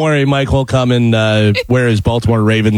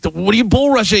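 high-pitched mock yell, no added volume; raised-pitch retelling of a yelled rebuke; imitated coach yelling; 8 semitones higher than usual. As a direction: act out a coach chewing out a player. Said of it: "So the coach yelled at him".

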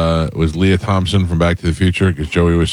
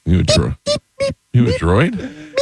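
alien voice; 9 semitones higher, slower than usual. Pretend. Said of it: "how aliens would talk to each other".

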